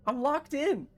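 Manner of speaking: very high, plaintive squeal; whiny mock protest. Stuck gamer protesting the game is mean, whiny mock distress. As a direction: whine it like a wronged child.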